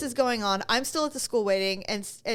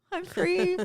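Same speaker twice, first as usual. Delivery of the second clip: joyful cry; 9 semitones higher than usual. Retold or imitated. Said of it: "I just literally was like".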